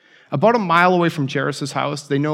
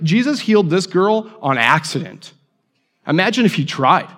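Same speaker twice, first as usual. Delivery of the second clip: excited; 4 semitones higher, 4 dB louder than usual. Retold or imitated. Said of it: "He must be really excited".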